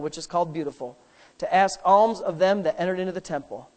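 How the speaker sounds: low, subdued Bible reading; scripture reading. Acted. Preacher reading Acts to the congregation, subdued recital.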